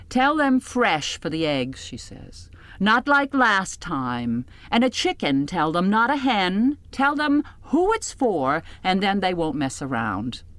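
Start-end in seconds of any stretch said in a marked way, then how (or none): 0.1-1.8 Rita's orders. Acted. Rita giving orders to narrator. 2.8-10.4 Rita's orders. Acted. Rita giving orders to narrator.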